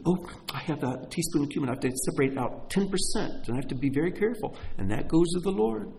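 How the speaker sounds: quick, fussy imitation of a braggart; mock bragging. Preacher mimicking Pharisees tithing a teaspoon of cumin, mock bragging. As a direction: lightly parody someone proud of tiny scruples. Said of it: "they get to brag about".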